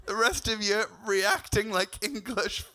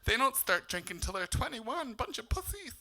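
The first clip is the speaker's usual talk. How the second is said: put-on young cocky self; 5 dB quieter than usual. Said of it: "all my optimism and thinking".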